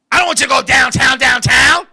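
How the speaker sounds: "downtown, downtown" said firm and brisk; plain loud downtown. Shown as a demonstration. Woman correcting him about "downtown", brisk and loud. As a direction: say "downtown, downtown" loudly, like the ordinary place name. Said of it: "This is how she said it".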